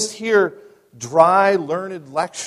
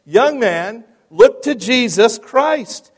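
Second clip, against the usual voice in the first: high, loud pulpit cry, drawn out at the end; ringing, slow evangelistic call; preacher's shout; 9 semitones higher, 15 dB louder, slower than usual. Acted. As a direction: shout it across the chapel at one man. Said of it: "Then he shouted".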